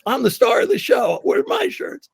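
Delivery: high, loud mock tantrum; retold outraged shout. Comic retelling of Sam demanding his shirts, screaming indignantly. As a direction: yell it like an indignant star throwing a fit. Acting out Sam's indignant outburst.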